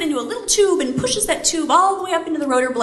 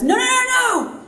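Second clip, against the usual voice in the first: alarmed protest; 11 semitones higher than usual. Retold or imitated. Pilot insists on checklist procedure.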